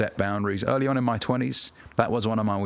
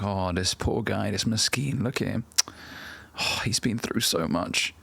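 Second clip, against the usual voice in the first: slow, lightly pitying sigh of sympathy; imitated pity. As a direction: feel mildly sorry for him, drawing it out. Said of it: "If she feels sorry for you".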